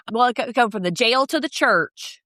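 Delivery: lightly imitated accent; a passing attempt at someone else's accent; Brittany's accent. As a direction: quote it with a hint of their accent. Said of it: "I did Brittany's accent".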